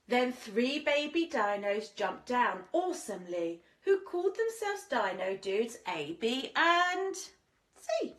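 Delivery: lilting rhymed storybook read; sing-song storyteller voice; reading to children. A narrator's reading. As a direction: read it like a bedtime picture book. Rhyming story read aloud.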